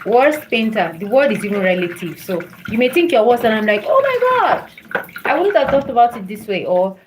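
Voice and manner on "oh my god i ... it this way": high-pitched acted gasp of amazement, then quicker; amazed reaction. Reacting to someone's painting, acted amazement. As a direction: exclaim high, then rush on admiringly.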